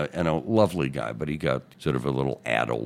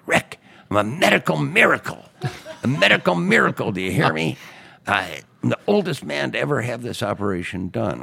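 put-on much higher and louder, exultant old man; triumphant crowing; 11 semitones higher, 7 dB louder than usual. Old patient boasting to Rick on the phone, crowing loudly. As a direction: crow it down the phone like you beat death. Studs crowing from hospital bed.

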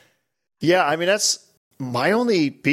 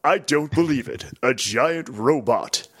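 narrator guy. Retold or imitated. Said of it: "the narrator guy's awesome".

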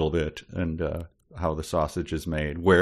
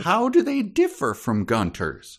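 mock proud parent; 5 semitones higher, slower than usual. Mock parent reading along.

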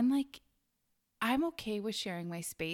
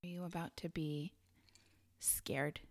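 spooky whisper; 2 semitones lower, 9 dB quieter than usual. Acted. Host teasing her co-host before a scary story, in a spooky whisper.

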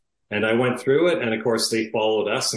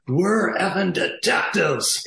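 incensed retort; 8 semitones higher, slower than usual. Retold or imitated. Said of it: "because he was so incensed".

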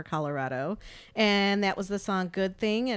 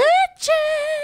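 shout; 9 dB louder than usual. Acted. Shouted discount code during ad.

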